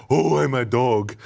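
slow, drawn-out talking-dog voice; dog impersonation. Retold or imitated. Player showing how the game's voice actors play dogs, dog impersonation. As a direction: stretch the words out like a talking dog. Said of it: "like the animals they're, they're impersonating".

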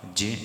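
ਜੇ said short and clean, one syllable; careful pronunciation. Shown as a demonstration. Teacher modelling ਜੇ for the congregation, careful pronunciation. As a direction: model ਜੇ slowly for the learners. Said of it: "ਇਸ ਢੰਗ ਨਾਲ ਉਚਾਰਨ ਕਰਨਾ ਹੈ ਜੀ".

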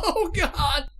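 loud stuttering wail into a cry; panicked exclamation. Real, not acted. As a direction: let a juddering 'oh' spill out in dread. Reacts to creepy caller's threat.

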